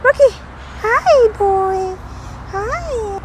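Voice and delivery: very high, loud, excited dog greeting; talking to a dog. Real, not acted. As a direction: squeal hello to a happy dog.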